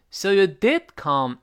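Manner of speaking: "did" high and strong, slow; emphatic "did" in "So you did come"; stress on did. Shown as a demonstration. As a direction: lift "did" over "come". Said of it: "did是不是读得高了呢".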